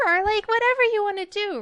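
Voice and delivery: put-on high, loud, quick kid voice; high animation voice. Shown as a demonstration. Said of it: "it could go way up here".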